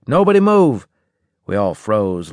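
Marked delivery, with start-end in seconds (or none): 0.1-0.9 loud, high, urgent order; sharp rise into a commanding yell; shouted command. A narrator's reading. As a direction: shout it so the whole squad freezes. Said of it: "I shouted".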